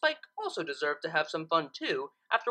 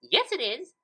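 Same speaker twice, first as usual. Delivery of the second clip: insisting; 6 semitones higher than usual. Acted. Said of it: "Pinkie insisted".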